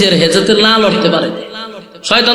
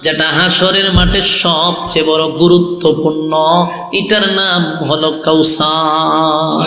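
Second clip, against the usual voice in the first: singsong sermon with drawn-out line endings; melodic preaching; slower than usual. Acted. Preacher retells God's gift to the Prophet, melodic preaching. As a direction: intone each phrase and stretch its last word.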